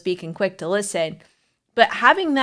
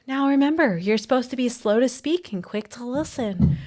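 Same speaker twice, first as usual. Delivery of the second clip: mildly patronizing, higher-pitched reminder; condescending; 3 semitones higher than usual. Retold or imitated. Someone lecturing a wife about to explode, condescending. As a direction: talk down like a preachy advisor. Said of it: "so condescending and patronizing".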